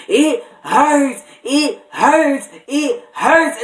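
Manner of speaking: hammed-up pained shriek with a giggle; imitating her screaming. Retelling sister screaming in labor, laughing mock scream. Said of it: "her screaming".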